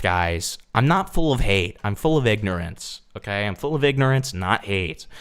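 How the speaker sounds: normal talking voice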